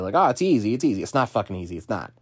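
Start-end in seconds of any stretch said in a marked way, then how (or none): 0.1-1.0 mock breezy. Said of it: "not gonna sit here and tell you".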